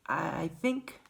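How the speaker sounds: soft and hesitant; shy, halting boy; quiet. A narrator's reading. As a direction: falter it under your breath. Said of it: "he said quietly".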